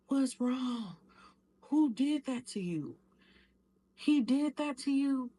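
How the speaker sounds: high, loud alarmed questions building; rising horror at the bruises; shocked auntie. Retold or imitated. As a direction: auntie seeing the black eyes, alarmed. Auntie sees her bruised face.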